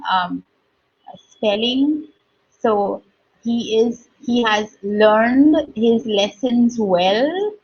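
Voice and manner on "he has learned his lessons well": learned said lernd; one-syllable learned. Shown as a demonstration. Teacher contrasting verb learned for pupils, lernd. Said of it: "there are two words".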